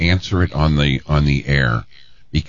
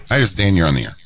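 quick phone greeting, dropping at the end; real fast; much faster than usual. Shown as a demonstration. Host trying out the sneaky phone greeting, real fast. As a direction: run the name straight into the disclosure. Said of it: "say it real fast. Answer the, answer the phone like this".

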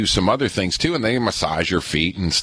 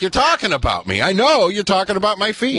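high, rising mock accusation; retold call-out to the staff, pitched up; mock accusing; 11 semitones higher than usual. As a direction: call them out half-jokingly, pitched up. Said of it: "And I'm like".

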